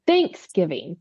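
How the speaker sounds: "Thanksgiving" stressed on THANKS; emphasis on THANKS. Retold or imitated. Wife demonstrating husband's Thanksgiving, leaning on THANKS. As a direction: punch the first syllable of Thanksgiving. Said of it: "he emphasizes thanks".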